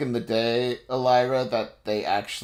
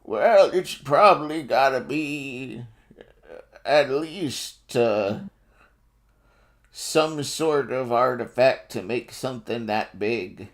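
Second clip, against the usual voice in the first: lightly voiced old man, slow; a hint of a creaky old man; slower than usual. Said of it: "in an old man voice".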